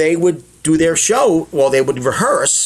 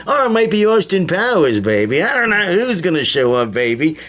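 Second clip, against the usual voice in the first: Austin Powers impression; 2 semitones higher than usual. Shown as a demonstration. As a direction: swing it like a cheeky sixties spy. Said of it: "I pepper it with all impressions".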